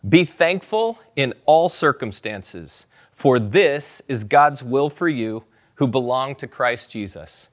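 slow, weighty reading of the verse; measured scripture recital. Shown as a demonstration. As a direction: read each word of the verse slowly. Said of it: "say it out loud".

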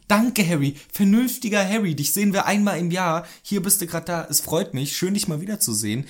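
playful, hammed-up thanks; mock grateful. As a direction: greet a rare guest with exaggerated gratitude. Mock address to a sensible Harry.

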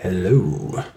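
low drawn-out hello. Shown as a demonstration. Host savouring the word hello, low. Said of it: "it's fun to say".

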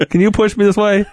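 high squeaky squid begging. Acted. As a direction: pitch it way up like a helpless squid. Squid voiced in scene.

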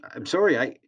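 high, rising, shaken "I'm sorry"; boy apologising in panic after being slapped; frightened apology. A narrator's reading. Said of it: "I stuttered".

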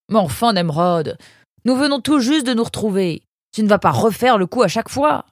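high, indignant pleading; exasperated protest. A narrator's reading. Parent to son who is leaving again, exasperated.

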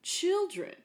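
sing-song store PA announcement; like a bored clerk on the store intercom; store announcer. Retold or imitated. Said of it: "the intonation is really great".

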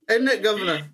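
put-on Cockney accent. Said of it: "That's like a Cockney thing".

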